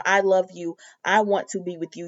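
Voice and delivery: lightly voiced man, low and plain; a hint of a sincere husband; Eric's voice. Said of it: "Eric is telling Donna".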